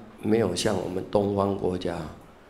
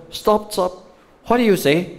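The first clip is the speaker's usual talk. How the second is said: high, loud calls of stop from a baffled professor; professor interrupting; 10 semitones higher, 3 dB louder than usual. Retold or imitated. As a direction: cut the speaker off as a puzzled teacher. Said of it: "老师". (模仿教授大声打断)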